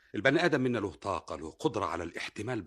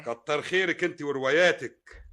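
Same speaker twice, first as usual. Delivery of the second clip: slow sarcastic thanks; 6 semitones higher, 5 dB louder, slower than usual. Acted. Husband mocks wife's novels.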